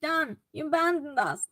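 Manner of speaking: playful pretend reproach; mock accusation. Streamer teases returning viewer for being away, mock accusation. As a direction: tease with a put-on complaint. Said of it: "I'm just joking with you".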